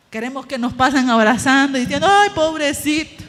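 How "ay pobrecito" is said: mock whiny pity. Mocking wish for pity.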